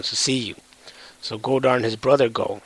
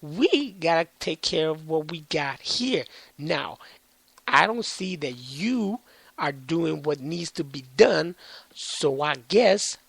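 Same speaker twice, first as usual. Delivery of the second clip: cocky defiance; 3 semitones higher than usual. Retold or imitated. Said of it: "they're all like".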